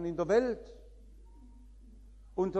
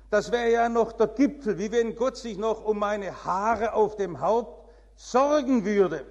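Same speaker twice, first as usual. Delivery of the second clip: higher and louder, outraged protest; mock the woman's indignant outrage, much higher and louder; 5 semitones higher, 7 dB louder than usual. Preacher retelling an outraged churchgoer's protest, indignant and loud. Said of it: "sagte sie empört".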